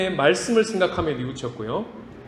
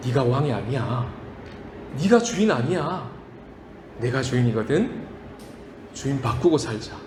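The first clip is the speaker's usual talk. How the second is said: God speaking. Acted. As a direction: speak it like a gentle master. God's voice quoted.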